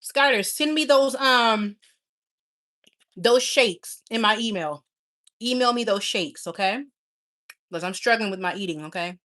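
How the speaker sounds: talking through a mouthful of food; mouth full. Real, not acted. Streamer asks a viewer for shakes while eating, mouth full. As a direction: chew and talk at once. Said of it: "I'm gonna talk with my mouth full".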